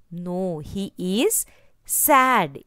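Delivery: slow, drooping, a touch of sorrow; mildly sad. Acted. Teacher to class about the scolded boy, a touch sad. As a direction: lean gently into sad for the children.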